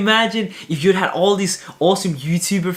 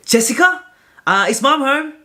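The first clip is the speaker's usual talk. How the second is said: caller on the phone; 9 semitones higher, 4 dB louder than usual. Retold or imitated. Caller mistakes him for sister.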